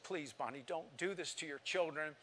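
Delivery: retold pleading in tears that swells. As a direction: start soft and plead harder with each line. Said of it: "I pled with her in tears".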